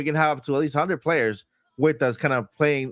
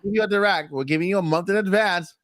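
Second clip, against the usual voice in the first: imitated attitude; 3 semitones higher than usual. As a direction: lay down terms like a touchy executive. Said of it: "heard the attitude in his voice".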